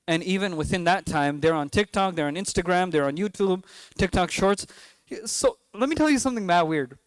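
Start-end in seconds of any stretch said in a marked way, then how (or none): 5.2-7.0 slipping into a New York accent, pitched up; a quick New York twang on it. Real, not acted. Imam to parents, New York accent slips out. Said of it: "the New York accent came out".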